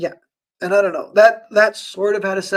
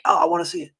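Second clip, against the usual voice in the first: high-pitched "oh", keen to watch; eager reaction; much faster than usual. Retold or imitated. Viewer hearing critiques of a weird movie, high-pitched eagerness. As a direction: quote yourself suddenly intrigued.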